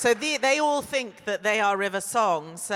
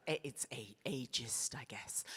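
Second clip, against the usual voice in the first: dropped to a hushed whisper; confiding whisper; whispered aside; 8 semitones lower, 15 dB quieter than usual. Real, not acted. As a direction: let it slip out under your breath. Confides an aside about ageism.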